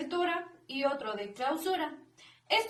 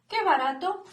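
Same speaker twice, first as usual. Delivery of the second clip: higher and louder, delighted; exclaimed example; 5 semitones higher, 4 dB louder than usual. Shown as a demonstration. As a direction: exclaim qué barato as if spotting a bargain. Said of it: "como podría ser unos claros ejemplos".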